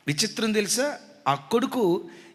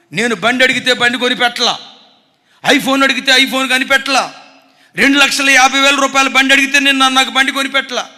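aggrieved son; 4 semitones higher, 9 dB louder than usual. Retold or imitated. Son complaining about bike.

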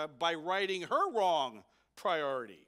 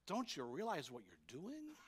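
softer, lower plea; plead, hurt rather than angry; pained plea; 5 semitones lower, 9 dB quieter than usual. Retold or imitated. The Lord pleading with Saul, soft and pained. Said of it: "He's saying that with emotion".

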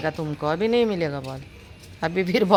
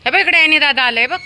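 high, loud sing-song calling to a dog; pet talk; 7 semitones higher, 4 dB louder than usual. Real, not acted. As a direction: coax the puppy over, bright and loud.

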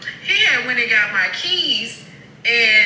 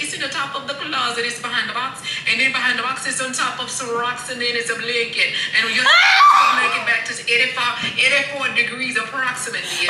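put-on Haitian accent. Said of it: "I'ma try to do this Haitian accent".

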